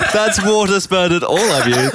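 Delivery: laughing. Real, not acted. Laughing after water spray.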